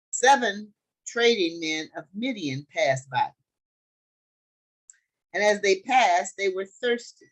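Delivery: loud, deliberate scripture reading. A narrator's reading. Teacher reads the Joseph story to the group, deliberate scripture reading. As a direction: read it out slowly in weighty phrases.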